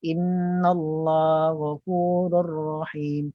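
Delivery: slow chant that glosses over GH in GHAFURUR; missing ha and ghin. Shown as a demonstration. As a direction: recite slowly, losing HA in INNALLAHA and GH in GHAFURUR. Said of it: "Tak jumpa hanya kat mana". (ha dan ghin tidak kedengaran)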